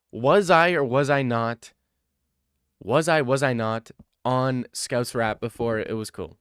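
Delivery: insistent demand. Real, not acted. Demanding chat agree.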